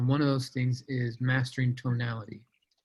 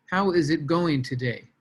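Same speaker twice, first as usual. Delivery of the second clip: "How is it going today?" with every word spelled out and a hit on "How"; uncontracted "How is", stilted and mechanical; stiff scripted reading; 2 semitones higher than usual. Shown as a demonstration. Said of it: "but nobody talks like that".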